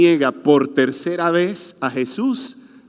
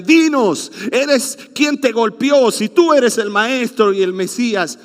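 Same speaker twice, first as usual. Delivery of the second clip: mocking taunt; 4 semitones higher than usual. Soldiers mock the beaten Jesus.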